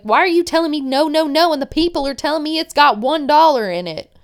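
fast, high, loud retold protest; mock-outraged rapid challenge; exasperated. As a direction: imitate an exasperated girlfriend firing back. Acted quarrel, she confronts him.

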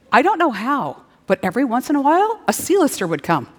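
normal talking voice

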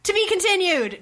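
high, loud cliffhanger call; dramatic announcer. Pretend. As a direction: boom it like a trailer voice.

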